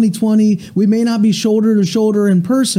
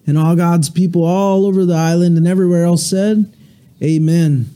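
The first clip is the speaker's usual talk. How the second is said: steady, earnest prayer voice; pastoral prayer; 2 semitones lower than usual. Acted. Pastor leading the church in morning prayer, reverent and steady. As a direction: pray it over the congregation with reverence.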